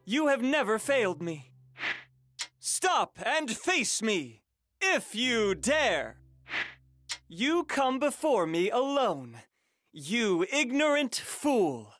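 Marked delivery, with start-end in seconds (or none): 2.6-11.9 slow, emphatic battlefield challenge; defiant challenge. Acted. Warrior daring a foe to face him, defiant. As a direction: dare the enemy, drawing the words out.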